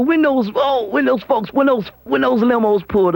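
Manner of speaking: high, fast-building excitement; excited host. Real, not acted. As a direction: build the excitement as the limos arrive. Excited retelling of limos arriving.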